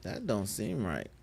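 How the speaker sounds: high, drawn-out disbelief; incredulous, slow and high-pitched; baffled. Real, not acted. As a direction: stretch it out in puzzled protest. Baffled reaction to a glitch.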